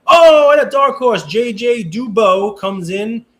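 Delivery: excited race-call build; race caller. Acted. Calling the bidding like a race.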